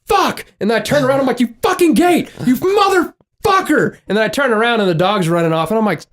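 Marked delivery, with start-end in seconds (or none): 0.0-0.5 high-pitched mock yell; retold cursing scream. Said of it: "I screamed". 1.4-4.0 high, hammed-up angry rant at a gate; cussing out. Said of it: "cussing out the gate".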